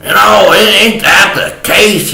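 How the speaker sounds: high, pleading whine; hammed-up high plea for mercy; mock begging. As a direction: beg for mercy in a comic high voice. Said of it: "I was begging her".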